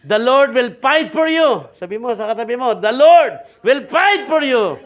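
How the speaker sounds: loud, slow, punched-out scripture reading; high, forceful preacher's declaration; emphatic preaching. Acted. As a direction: proclaim it to the congregation.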